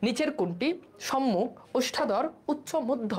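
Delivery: slow, careful exam question; quiz question read out. Shown as a demonstration. Teacher reads the exam question slowly to students. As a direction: read each term separately for the class. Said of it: "option ছাড়া answer করো".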